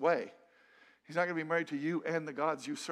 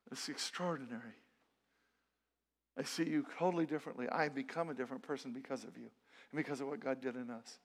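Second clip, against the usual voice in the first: tender sincerity. Retold or imitated. Husband telling his wife she changed him, tenderly.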